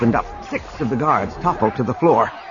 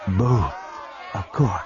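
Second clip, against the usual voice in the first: cool reply; 5 semitones lower, 6 dB quieter, slower than usual. A narrator's reading. Navid's cool answer, smiling tightly.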